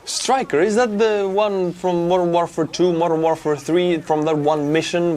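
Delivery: Stryker jumps up high, then eager questions; light up as you recognise the game; gleeful gamer recall; excited recognition. Real, not acted. Recognizes vehicle from video game.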